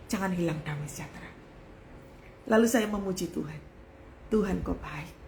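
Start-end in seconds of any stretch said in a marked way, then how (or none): 0.1-1.3 low, soft and hushed; God's quiet word. Retold or imitated. God speaks to her after the collapse, low and hushed. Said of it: "tapi Tuhan katakan". 4.3-5.1 low, soft, subdued prayer; retold tearful praise. She praises God despite the ruined house, softly tearful. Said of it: "Sambil nangis tuh".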